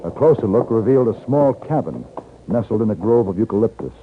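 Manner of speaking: calm, measured radio narrator over music; story narration. A narrator's reading. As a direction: tell it like a western storyteller looking back. Narrator tells the western story.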